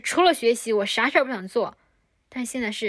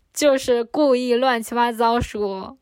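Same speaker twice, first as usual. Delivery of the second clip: slow laughing talk with a touch of silliness; 4 dB louder than usual. Real, not acted. Admitting her silly talk while laughing. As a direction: laugh through the words, drawn out.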